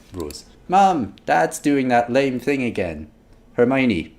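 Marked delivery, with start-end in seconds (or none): 0.7-3.1 a hint of an embarrassed teen; mildly mortified daughter; mildly voiced teen. Rose complains about her dad, lightly voiced teen. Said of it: "oh wait".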